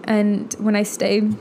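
choking on salad, strained. Real, not acted. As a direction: voice catching from choking. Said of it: "sorry, I'm choking".

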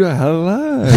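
enthusiastic hello. Shown as a demonstration. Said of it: "that was pretty subdued".

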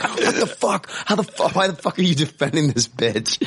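high-pitched, incredulous mock rant; retold outrage. Host recalling getting mad at a co-host, retold outrage. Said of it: "I could tell you got real mad".

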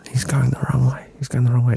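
hushed, voiceless whisper; secretive whispered warning; retold whisper. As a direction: whisper it while hiding from the driver. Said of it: "Just whispering".

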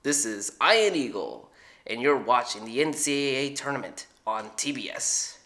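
a hint of a sports broadcaster intro; Ian Eagle impression. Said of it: "we're gonna do Ian Eagle".

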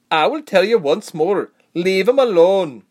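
loud, high final warning; steely warning. A narrator's reading. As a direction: warn them firmly, stretching out the last order. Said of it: "said in a quieter, steely voice".

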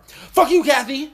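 high, loud shout at mom; mock bratty yell. Teen mocked yelling at his mom in a gas station, high bratty shout. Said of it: "Sixteen-year-olds who be like".

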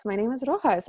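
Rojas with a Spanish h sound, ROH-has. Shown as a demonstration. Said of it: "That's how you pronounce it".

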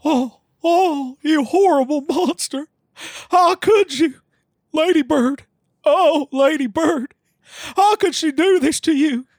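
whimpering. Acted. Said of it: "Hank whimpered to himself".

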